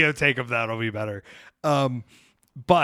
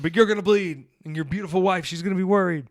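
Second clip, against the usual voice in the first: pleading; 7 semitones higher, 5 dB louder than usual. Retold or imitated. Pleading with Mance, retold.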